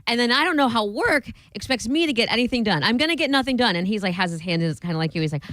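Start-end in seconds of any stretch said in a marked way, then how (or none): 0.0-3.8 mock meltdown. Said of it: "he lost his crap".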